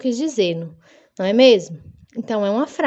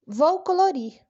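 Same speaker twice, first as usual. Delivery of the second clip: higher-pitched plain statement of "Vou colorir"; declarative intonation; 6 semitones higher than usual. Shown as a demonstration. Teacher testing children on full stops, declarative. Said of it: "eu só falei a frase, terminei".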